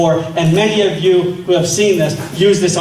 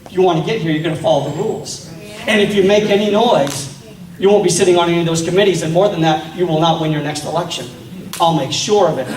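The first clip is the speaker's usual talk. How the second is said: threatening John Boehner; 3 semitones lower than usual. Retold or imitated. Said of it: "a guy like John Boehner sits down with them and says".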